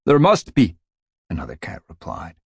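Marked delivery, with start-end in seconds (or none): 0.1-0.8 eager cat voice. Acted. Another cat replies.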